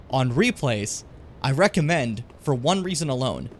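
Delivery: ordinary talk, nothing marked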